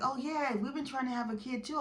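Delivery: imitating the other girlfriend. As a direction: lightly mimic her offhand chirp. Retelling rival girlfriend's boastful line.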